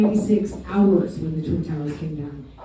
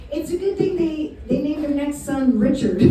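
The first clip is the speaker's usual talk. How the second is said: imitating mom; 5 semitones higher, 4 dB quieter than usual. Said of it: "And then she goes".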